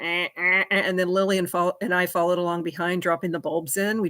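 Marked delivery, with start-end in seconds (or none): 0.0-0.8 short repeated drill buzzes; vocal drill sound effect; imitated drill noise. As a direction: mimic a drill going in, burst by burst. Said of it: "he just went".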